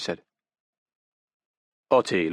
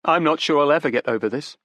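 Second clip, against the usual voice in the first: put-on higher, urgent young woman pleading; desperate young woman; 6 semitones higher, 4 dB louder than usual. Daughter defends her father to detectives, desperate. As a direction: grasp for excuses, pitched up.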